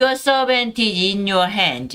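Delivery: ordinary talk, nothing marked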